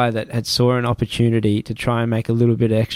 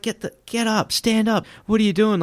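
high-pitched, flustered retold recoil; alarmed protest; 10 semitones higher than usual. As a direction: act out fending someone off in alarm. Retold recoil from man grabbing feet.

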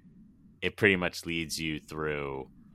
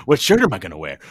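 put-on goofy voice; silly character voice; 9 dB louder, much faster than usual. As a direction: act out the singer's panic. Acting out song character.

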